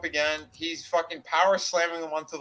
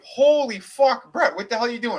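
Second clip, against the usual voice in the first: astonished; 6 semitones higher, 4 dB louder than usual. Retold or imitated. Retelling, the guys gape at Bret's bag of weed in loud amazement. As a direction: drag out the disbelief.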